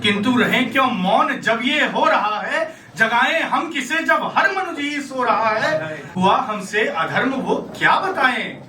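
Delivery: metrical verse with an aggrieved edge; dramatic poem recitation. Acted. Dying Karna questions Krishna about dharma, aggrieved verse recitation. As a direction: recite in measured, challenging lines.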